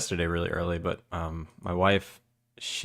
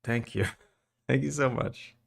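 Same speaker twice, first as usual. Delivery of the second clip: laughing; 4 semitones higher than usual. Real, not acted. Thanking a new subscriber.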